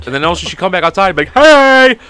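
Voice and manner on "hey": loud, high, drawn-out hey; over-the-top put-on character. Falling back into the act as she returns, loud high put-on voice. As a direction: holler it in the silly pretend voice. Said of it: "And I couldn't stop".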